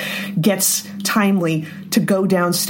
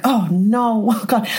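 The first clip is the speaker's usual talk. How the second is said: mock dread; 4 semitones higher, slower than usual. Own dread when Obi says wait.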